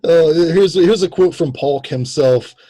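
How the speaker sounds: usual speaking voice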